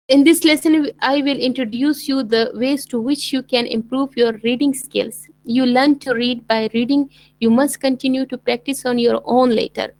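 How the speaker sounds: slow, deliberate English reading aloud; slow textbook reading. Shown as a demonstration. Teacher reading the textbook passage aloud to students, slowly. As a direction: read the passage for the class, unhurried.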